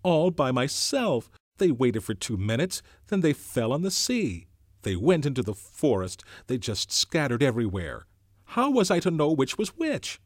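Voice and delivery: put-on fretful boy pleading his case; Piggy's voice. A narrator's reading.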